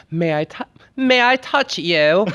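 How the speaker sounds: high, drawn-out mock fan plea; imitating fans. Guest imitating kind fans at the convention, mock pleading. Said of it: "everyone's like".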